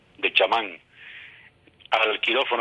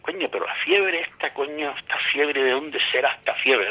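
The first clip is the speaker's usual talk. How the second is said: a hint of a careless doctor, pitched higher; mock the doctor wondering aloud, higher; puzzled doctor; 4 semitones higher than usual. Doctor voiced in retold story.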